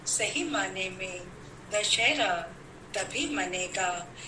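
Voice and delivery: measured, declaimed verse with pauses between phrases; poem recital. Acted. Poet to fellow poets on Vijayadashami, declaimed festival verse. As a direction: recite it line by line to a poetry gathering.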